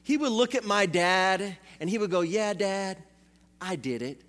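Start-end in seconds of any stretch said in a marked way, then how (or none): 2.2-4.2 defiant. Retold or imitated. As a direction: dare your dad, quiet and cocky. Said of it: "he was just full on defiant".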